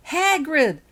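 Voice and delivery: high, loud happy squeal; little girl squealing as the giant arrives; delighted squeal. Acted. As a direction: squeal his name with joy. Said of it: "squealed Lily with pleasure".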